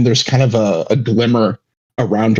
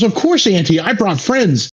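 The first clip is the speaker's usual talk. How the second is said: put-on high-pitched, eager little-kid voice; chirpy child reassuring his auntie; 9 semitones higher than usual. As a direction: play a proud young nephew, pitched well up. Sushi kid proudly answers his aunt.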